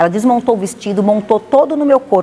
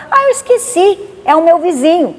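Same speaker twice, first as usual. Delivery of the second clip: much higher, sing-song excuse; airy host; 8 semitones higher than usual. Retold or imitated. Host to the narrator, high innocent excuse. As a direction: play innocent about forgetting. Host answers, suddenly remembering.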